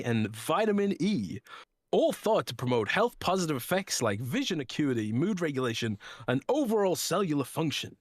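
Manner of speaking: lilting, emphatic sponsor read. Acted. Podcast host reading the sponsor's drink ad, emphatic ad read. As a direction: sell it with swooping stress on key words.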